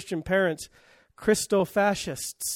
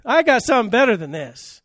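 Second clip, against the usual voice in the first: raised, forceful preaching voice; emphatic divine answer; 4 semitones higher, 5 dB louder than usual. Acted. Preacher repeats God's promise of better, loud and emphatic. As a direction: proclaim it louder and higher, with conviction.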